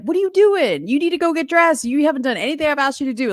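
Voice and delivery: high, sharp mock scolding, quick at the end; mock telling off the kids; imitating a mom nagging the kids in the morning. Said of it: "you're just like".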